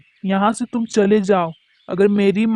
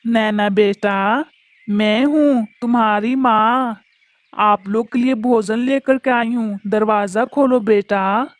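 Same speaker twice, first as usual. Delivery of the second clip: a hint of a mother coaxing her child; mimicking mother's voice. Crow pretends to be the mother to get in, lightly faked mother voice. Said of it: "टूनी चिड़िया की आवाज में बोलता है".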